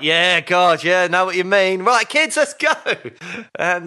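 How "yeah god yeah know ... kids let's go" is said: louder, rising up to a bright let's go; breezy brush-off. Retold or imitated. Dad humouring a mum at the gate, breezy brush-off. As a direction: nod along, then herd the kids off.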